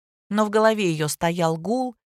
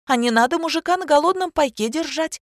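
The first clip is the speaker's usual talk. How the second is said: ranting; 8 semitones higher than usual. A narrator's reading. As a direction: let loose in a tirade. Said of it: "пошла в разнос Аня". (разнос высоким голосом)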